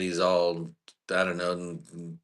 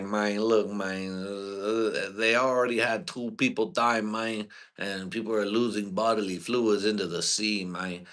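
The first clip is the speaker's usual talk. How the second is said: mock Cuban accent. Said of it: "his dumb Cuban accent".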